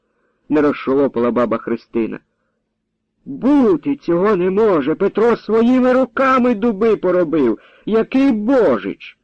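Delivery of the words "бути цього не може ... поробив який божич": put-on old woman refusing to believe the charge; indignant old woman. A narrator's reading. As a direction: protest in disbelief, voice up high. Old woman protests loudly.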